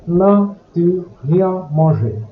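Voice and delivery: slow, careful French example. Shown as a demonstration. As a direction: spell it out slowly for the class. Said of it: "As an example".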